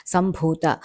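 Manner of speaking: సంభూత with a firm aspirated bh; stressed aspirate. Shown as a demonstration. Teacher shows the aspirated letter, సంభూత with a firm bh. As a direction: say సంభూత slowly, pressing the breathy భ. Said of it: "ఒత్తు గట్టిగా పలకాలన్నమాట".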